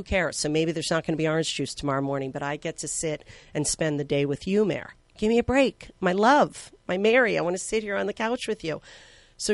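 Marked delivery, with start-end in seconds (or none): 5.2-8.8 insistent plea. Retold or imitated. Pleading with sick friend on couch.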